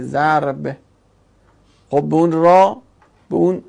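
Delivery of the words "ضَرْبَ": «ضرب» said zar-b, vowelless r; sukun on R. Shown as a demonstration. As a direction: say «ضرب» with the r closed onto the b. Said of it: "روی را ساکن دیگه". («ضرب» با سکون روی ر)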